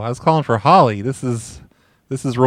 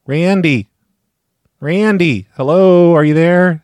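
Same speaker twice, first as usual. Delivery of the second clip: calling out; 4 semitones higher, 3 dB louder, slower than usual. Pretend. Calling out into the phone.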